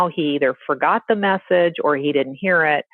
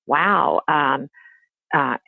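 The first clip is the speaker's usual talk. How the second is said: a lightly voiced, higher, sing-song taunt from a mean old mother-in-law; taunting grandmother; 5 semitones higher than usual. Mother-in-law taunting the father by phone, mock sweet gloating. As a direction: gloat sweetly with a laugh, just to needle. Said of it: "taunting messages on the phone".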